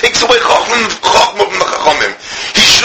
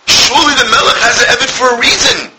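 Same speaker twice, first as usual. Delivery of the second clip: tearful plea; 4 semitones higher than usual. Real, not acted. Preacher's tearful plea continues.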